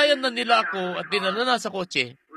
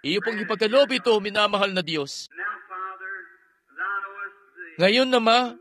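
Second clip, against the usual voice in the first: earnest prayer. Acted. Preacher praying for the sick before the healing line, reverent. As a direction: pray over the congregation, unhurried.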